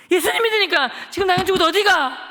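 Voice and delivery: loud, high threatening questions; bully the kids into answering; menacing interrogation. Retold or imitated. Schoolboy grilling classmates about church, loud and threatening.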